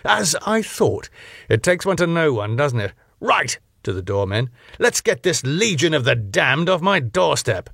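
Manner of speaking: high, sneering snob; smug club owner. Acted. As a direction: look down your nose at him. Max voiced, smug and scornful.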